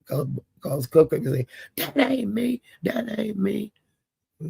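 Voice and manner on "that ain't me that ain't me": high, insistent imitation of a denial; mock protest. Cupcake denying the video to eighty-eight, high mock protest. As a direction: pitch it up, protesting.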